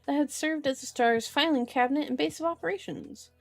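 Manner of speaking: measured audiobook-style reading; story narration. A narrator's reading. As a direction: read the novel aloud, phrase by phrase. Reads the novel aloud.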